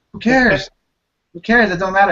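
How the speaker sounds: retold exasperated reassurance. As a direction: brush off her worry, lively. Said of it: "and I'm like".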